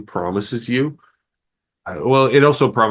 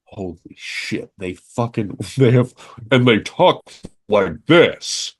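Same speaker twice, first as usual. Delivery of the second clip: stunned disbelief; slower than usual. Retold or imitated. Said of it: "I was like".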